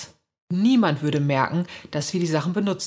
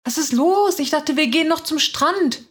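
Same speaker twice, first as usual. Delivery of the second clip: hohe, leicht genervte Schwester; leicht angesäuert; 10 semitones higher, 4 dB louder than usual. A narrator's reading. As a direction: mit einem Anflug von Ungeduld nachhaken. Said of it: "sagt sie leicht angesäuert". (etwas eingeschnappt, in hoher Stimmlage)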